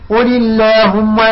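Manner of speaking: "اللهم" with thin, front "llaahumma"; slow "قل اللهم", lam kept light. Shown as a demonstration. Teacher drills lam after kasra, thin "اللهم". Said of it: "قبل مكسور".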